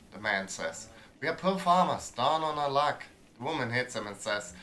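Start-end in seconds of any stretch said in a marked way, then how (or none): 1.2-3.0 poor farmer. Acted. Farmer begging caravan.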